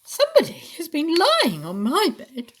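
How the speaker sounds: high, loud Mother Bear voice; mellow mother bear. A narrator's reading. Mother Bear finds her bed lain on, high mellow voice. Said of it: "said Mother Bear in a mellow".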